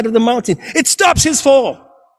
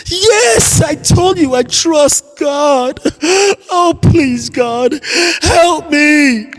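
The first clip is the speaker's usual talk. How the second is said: panicked pleading; 3 semitones higher, much slower than usual. Acted. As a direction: beg for rescue in panic. Climber pleads with God.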